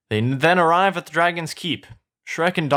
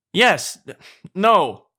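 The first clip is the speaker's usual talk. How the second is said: loud, raised, impatient blurt; punchy, higher, frustrated retort; exasperated outburst; 6 semitones higher, 5 dB louder than usual. Acted. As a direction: cut in with acted exasperation. Ogre exasperated at wrong guesses.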